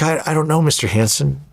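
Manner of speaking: put-on high, stammering nervous kid; imitating a scared caddy, high and stuttering. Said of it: "he was nervous".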